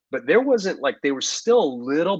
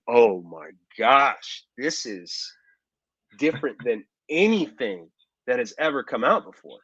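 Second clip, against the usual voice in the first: awed. Retold or imitated. Watching the game trailer, amazed.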